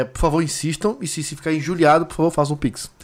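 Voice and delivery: usual speaking voice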